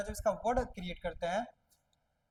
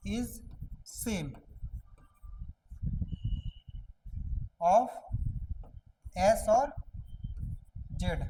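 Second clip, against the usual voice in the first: slow word by word; much slower than usual. Shown as a demonstration. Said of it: "हम क्या बोले कि".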